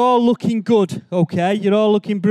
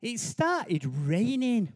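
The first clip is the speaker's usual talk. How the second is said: soft slow hush; hushed storytelling; 2 semitones higher, 9 dB quieter, slower than usual. A narrator's reading. Dramatic story narration.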